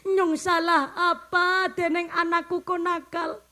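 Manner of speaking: half-laughing mock lament; a hammed-up sob of self-pity; blaming God. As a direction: imitate a parent wailing at God. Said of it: "dia menyalahkan Tuhan".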